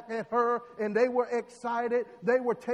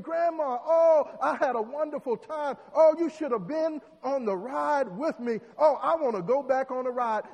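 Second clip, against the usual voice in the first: put-on a child's bright, raised, louder chatter; excited child; 3 semitones higher, 5 dB louder than usual. Little girl gushes to the stranger she thinks is grandma, excited and louder. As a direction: gush happily to grandma.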